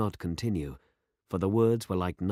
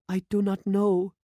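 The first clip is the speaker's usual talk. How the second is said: higher and louder distressed cry; 13 semitones higher, 6 dB louder than usual. A narrator's reading. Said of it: "she cried".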